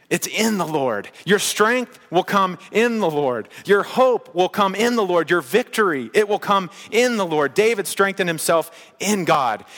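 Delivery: fervent pulpit climax; impassioned preaching. Real, not acted. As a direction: preach it with mounting conviction, punching the key words.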